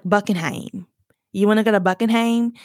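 mom's Southern drawl, Buckingham as BUCK-in-haym. Retold or imitated. Mom asking about visiting the palace, Southern drawl. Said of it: "pulls our drawl out".

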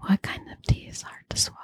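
murmured under breath while thinking; thinking aloud in a whisper; whispered to herself. Real, not acted. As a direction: whisper the riddle, pondering. Repeats riddle to herself.

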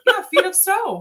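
slow, giggling through the words; laughing correction. Real, not acted. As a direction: set it straight while laughing. Correcting misheard fetus snow.

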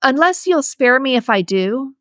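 a frightened mother pleading with the axe man for her life. Acted. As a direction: beg for your life, voice climbing. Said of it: "I sound pathetic trying to plead".

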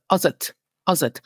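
"As et" blended into one word; run together. Shown as a demonstration. Teacher running "As et" into one word. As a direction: say "As et" as a single word, no break. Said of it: "this as et is pronounced as if it was only one word".

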